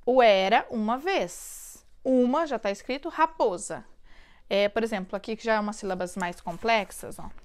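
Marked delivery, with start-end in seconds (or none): 0.0-3.8 "era uma vez" drawn out slowly and louder; slow, louder dictation of "era uma vez". Shown as a demonstration. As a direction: read it slowly as if dictating to a child. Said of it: "a criança vai completar".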